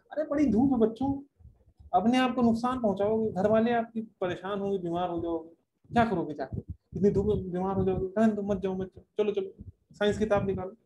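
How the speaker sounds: mock-concerned teacher talking kids out of games; period-stealing teacher. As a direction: imitate a teacher fussing, pitch settling as it goes. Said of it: "कोई teacher खा जाए".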